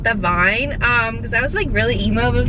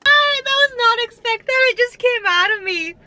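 surprised; 12 semitones higher than usual. Real, not acted. Surprised at her own voice.

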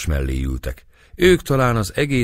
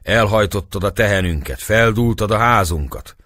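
angry accusation; 5 semitones higher, 5 dB louder than usual. A narrator's reading. Angry villagers accusing Turk.

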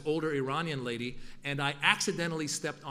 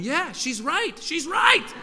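eager agreement; 12 semitones higher, 7 dB louder, much slower than usual. Retold or imitated. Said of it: "nodding and going".

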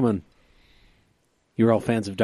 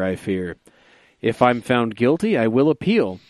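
radio announcer daddy voice. Acted. Reading his Seuss-style O J poem to his podcast friends, a hint of a radio announcer. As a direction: read the rhyme like a hint of a smooth radio host. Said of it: "in my radio announcer daddy voice".

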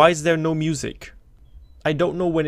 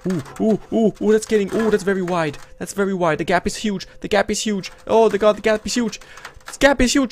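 terrified gibbering; 4 semitones higher, 4 dB louder, faster than usual. Pretend. Hatch gap widening.

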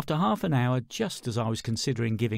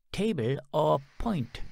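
chicken lady; 3 semitones higher, slower than usual. Acted.

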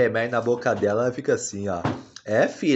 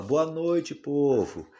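voicing the baby; slower than usual.

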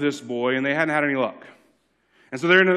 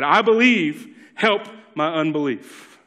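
a pleading cry, a touch louder, unbelief drawn out slowly; 3 dB louder, slower than usual. Retold or imitated. Father of the sick boy begging Jesus for help, crying out. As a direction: call out the plea, slowing on the last words. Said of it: "cried out and said".

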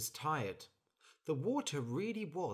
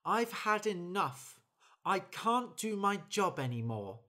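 fed-up bird; 7 semitones higher, 5 dB louder than usual. Acted. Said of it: "Then the bird said".

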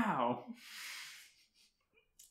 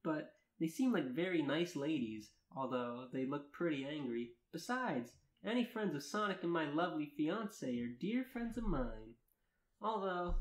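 earnest read-aloud of a first-person tale; story narration; 3 semitones higher, 5 dB quieter than usual. Acted. Narrator reading fan fiction to friends, story narration. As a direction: narrate it in measured, lilting sentences.

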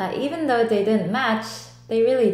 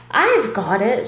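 mild shout; 4 dB louder than usual. Acted. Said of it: "shouts Ted".

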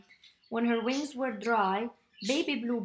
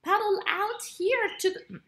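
calling out; 9 semitones higher than usual. Acted. Turtle calling across the pond.

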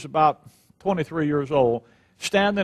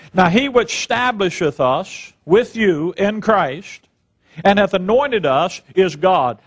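slow, measured scripture reading; slower than usual. Acted. Preacher reading the verse to his congregation, slow and measured. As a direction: read the verse slowly and deliberately.

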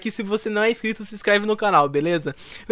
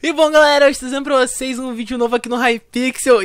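high, loud greeting to the viewers; YouTuber intro; 7 semitones higher, 6 dB louder than usual. Acted. Gamer greeting viewers with a new Hypixel video, hyped intro. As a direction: belt out the channel opener, pitched well up.

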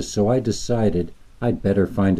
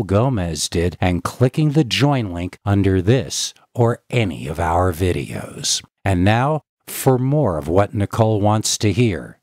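ad read; 2 semitones higher than usual. A narrator's reading. Sponsor read.

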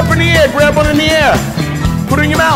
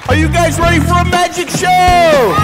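calling out; 4 semitones higher than usual. Real, not acted. Magician calling out to kids.

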